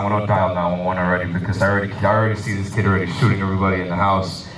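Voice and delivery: panicking dad. Retold or imitated.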